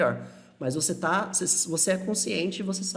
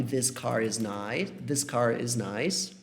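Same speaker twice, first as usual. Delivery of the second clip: slow model phrase; 4 semitones lower, much slower than usual. Shown as a demonstration. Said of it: "Então eu posso falar que".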